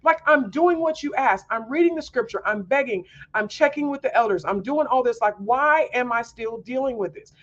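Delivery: high pleading, fading back toward normal; exasperated prayer to God. Retold or imitated. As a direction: cry out at God in frustration. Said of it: "And so I'm like".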